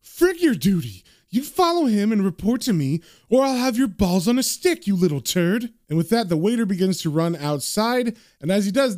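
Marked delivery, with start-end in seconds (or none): 0.0-5.7 angry yell. Acted. Boss yelling threats at the waiter, furious. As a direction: threaten him at full volume. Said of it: "And the man on the phone yells".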